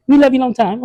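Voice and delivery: put-on high, lightly accented pitch-woman; a hammed-up accented saleswoman; mock Asian lady. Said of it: "an Asian lady".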